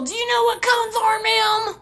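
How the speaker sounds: loud mock-cop sneer. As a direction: mimic a condescending officer. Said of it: "He's all".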